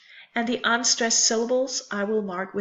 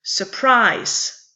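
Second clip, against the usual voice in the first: "Surprise" with a light first syllable and strong, falling -PRISE; stress on second syllable; 4 dB louder than usual. Shown as a demonstration. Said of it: "first syllable of the word is unstressed".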